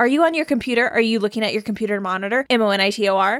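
put-on rapid, fast speech. Retelling what a frequent caller asked: imitating fast talking. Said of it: "she would talk so fast".

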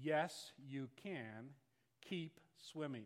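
quiet, firm, very stern, no-nonsense voice. Retelling what your father said when you were too tired swimming: retelling a stern voice. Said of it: "in a very stern voice".

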